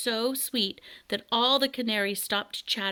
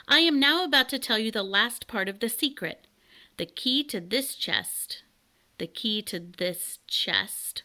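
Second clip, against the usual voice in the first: pompous bird king. Acted.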